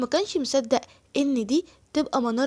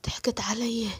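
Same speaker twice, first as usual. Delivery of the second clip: 1 despairing whisper; 5 dB quieter than usual. Acted. Robbed man despairs.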